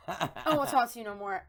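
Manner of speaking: laughing through a mock sulk; laughing pout. Sulking child, retold.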